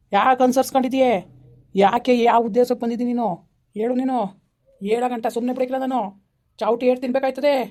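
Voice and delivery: harsh interrogation. Acted. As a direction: press the spirit hard, threatening.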